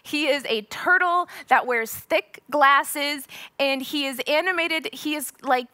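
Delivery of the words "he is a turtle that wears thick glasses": ordinary delivery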